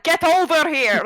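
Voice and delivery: loud, high shout. Acted. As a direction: yell it across the room. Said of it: "Daniel's like".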